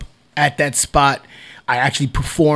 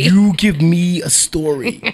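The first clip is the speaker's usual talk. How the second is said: laughing echo; 4 semitones higher, slower than usual. Real, not acted.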